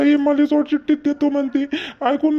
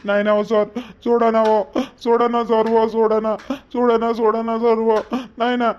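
pleading; 3 semitones lower than usual. Acted. Husband begs the cop to drop the case, pleading. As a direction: beg the officer to let it go.

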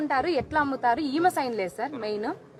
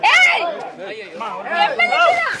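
furious shout; 10 semitones higher than usual. Real, not acted. Protester yelling at officials in the office, furious shout. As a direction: shout at them in real outrage.

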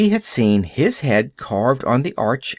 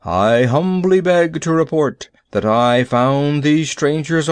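pompous. Acted. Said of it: "in a pompous voice".

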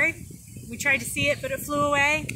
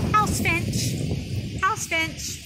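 higher house finch chant; calling out; 5 semitones higher, much slower than usual. Shown as a demonstration. Teacher shows her old call for the house finch. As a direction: sing out the name. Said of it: "I used to say".

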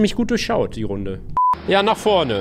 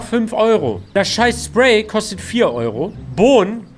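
angry rant; 6 dB louder than usual. Real, not acted. Ranting about the game's prices.

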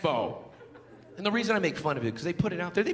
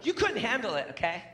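in your face; 3 semitones higher than usual. Retold or imitated. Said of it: "she gets in my face".

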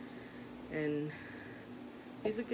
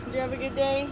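high, bright welcome for her son back from school; excited greeting; 8 semitones higher, 6 dB louder, faster than usual. Real, not acted.

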